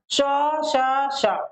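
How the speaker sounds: श said short three times in a row; three sh sounds. Shown as a demonstration. Teacher listing the three श sounds. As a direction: clip each श distinctly. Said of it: "ये हमारे तीनों शा है".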